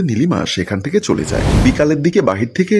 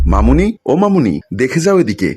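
loud calling out; 3 semitones higher, 4 dB louder than usual. Acted. Niece yelling for her aunt at the mirror, loud call. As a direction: shout across the house for her. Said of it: "জোরে চেঁচিয়ে ওঠে".

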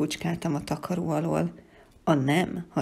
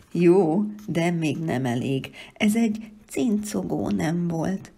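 squeaky voice; 4 dB louder than usual. Acted. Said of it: "mondta cincogó hangon".

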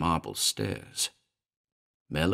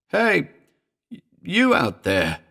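high, loud frightened cry that stumbles; almost scream it, stammering in fear; near scream; 10 semitones higher, 4 dB louder than usual. A narrator's reading. Mellor crying out at the stairs, near-scream. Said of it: "It was almost a scream".

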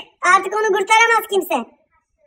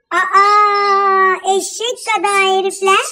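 drawn-out slow disgusted scoff; exasperated scoff; 3 dB louder, much slower than usual. Acted. Wife scoffs at the grown husbands, slow and disgusted. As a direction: sneer at the grown men.

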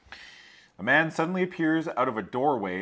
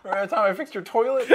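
put-on southern accent; 11 semitones higher, 4 dB louder, faster than usual. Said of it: "this southern accent".

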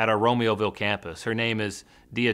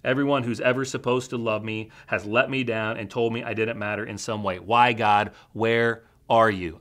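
louder, pleading cries of why; retold scream at God; 3 dB louder than usual. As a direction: cry out to God in anguish, half-performed. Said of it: "I screamed mockingly".

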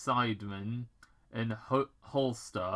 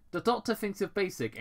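Agent Stone; 9 semitones higher, faster than usual. Acted. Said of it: "Agent Stone informed".

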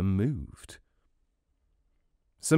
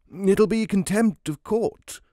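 stern judge; 10 semitones higher than usual. Acted. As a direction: warn them like an impatient judge. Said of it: "the judge told the husband".

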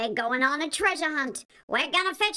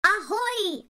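pirate call; 6 semitones higher than usual. Acted.

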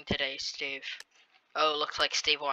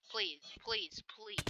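pleading squeak; 15 dB quieter, much slower than usual. Real, not acted. Begging the laggy game.

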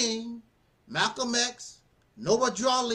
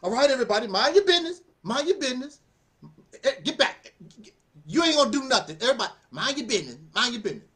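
pretend tough talk; faster than usual. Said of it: "you got to pretend to be bad".

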